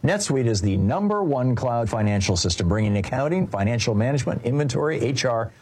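brisk, punchy sponsor read; polished radio commercial delivery. Acted. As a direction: pitch it crisply to business owners. Reads a business software ad.

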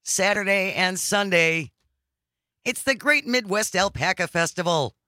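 measured fanfare for a local event; grand announcer. Pretend. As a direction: unveil the festival with big pauses. Announces festival with mock fanfare.

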